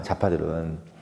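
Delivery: 좌파들은 murmured as a soft, low afterthought; trailing afterthought. Shown as a demonstration. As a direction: drop 좌파들은 away as a quiet tag. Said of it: "좌파들은 그런 얼굴을 싫어해".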